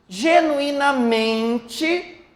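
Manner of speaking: GENUINAMENTE very slowly, leaning on MEN; stress on MEN. Shown as a demonstration. Teacher showing the strong syllable, GENUINAMENTE slow with long MEN. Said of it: "nós temos o".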